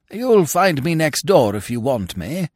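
lightly voiced amiable lord; Lord Emsworth. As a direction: play a genial lord lightly.

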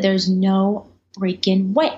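slow, emphatic disbelief; retold disbelief. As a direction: space the words out in amazement. Retelling disbelief at contract offer.

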